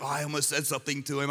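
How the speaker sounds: a hint of the host's hushed dismay; mock mortified aside.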